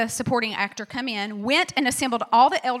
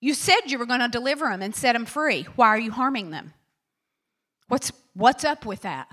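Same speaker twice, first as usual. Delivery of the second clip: louder, pleading complaint to God; Moses protesting; 3 dB louder than usual. Retold or imitated. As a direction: demand an answer from God. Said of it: "he goes to God and he says".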